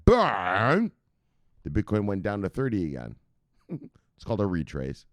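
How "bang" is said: slow, louder stretched-out bang; drawn-out bang. Real, not acted. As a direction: drag out the crash for drama. Dramatic market crash.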